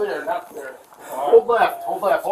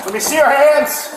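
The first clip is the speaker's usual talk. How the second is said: commanding shout; 5 dB louder than usual. Real, not acted. Officer commands suspect at gunpoint.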